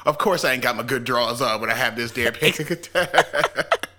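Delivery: comic self-mockery breaking into laughter; laughing complaint. Real, not acted. Joking to co-host about dying unprepared, laughing as it ends. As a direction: crack up before the last word. Cracking up at own story.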